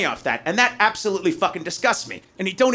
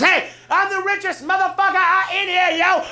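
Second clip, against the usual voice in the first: rich bro brag; 11 semitones higher than usual. Retold or imitated.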